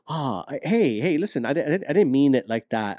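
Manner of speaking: mean every word of the sorry; mock-sincere spouse apologizing; sincere apology. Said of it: "They're like".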